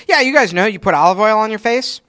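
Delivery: breezy, offhand imitation; mock casual. Teasing cohost about his olive oil habit, mock casual. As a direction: say it like everyone knows. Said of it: "you said it very casually".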